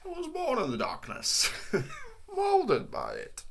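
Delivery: high, slow, laughing mock villain; mock Bane. Friend parodies the Batman villain monologue, laughing. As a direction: ham up the villain line while cracking up.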